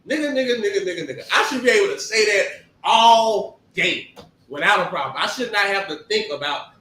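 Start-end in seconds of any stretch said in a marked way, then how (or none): 0.1-1.3 own voice. Shown as a demonstration.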